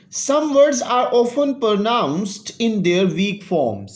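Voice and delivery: each English word read slowly and clearly for students; slow classroom read-aloud. Shown as a demonstration. Teacher reading the English text aloud to students, slow and clear.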